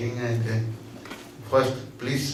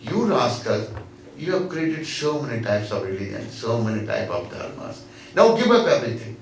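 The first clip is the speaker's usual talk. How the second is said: emphatic scolding. Retold or imitated. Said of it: "He's saying".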